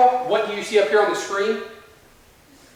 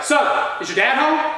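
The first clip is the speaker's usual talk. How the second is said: higher-pitched, lightly acted officer's demand; mock cop bark; 6 semitones higher than usual. Cop questioning teenager at the door, mildly barked. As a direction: imitate a cop barking a question. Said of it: "that same cop barks at me".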